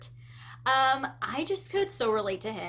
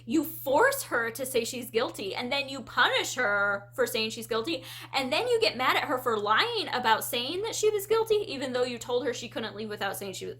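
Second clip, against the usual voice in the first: mock outrage; 2 semitones higher than usual. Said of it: "I was so hot and bothered".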